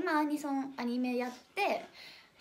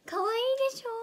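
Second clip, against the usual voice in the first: cute high coo; 12 semitones higher, 4 dB louder, much faster than usual. Real, not acted. Cooing over her pet cat.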